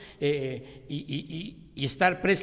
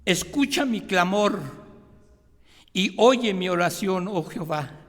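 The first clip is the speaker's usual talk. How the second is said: "Escucha mi clamor" and "oye mi oración" called out louder, weight on "Escucha" and "oye"; reordered, louder plea; 5 dB louder than usual. Shown as a demonstration. Pastor rereads the verse in new order, calling louder. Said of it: "podemos decir estas palabras, hermanos, de manera diferente".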